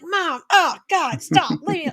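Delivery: put-on mortified kid begging mom to go; embarrassed kid. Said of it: "the kid would be like".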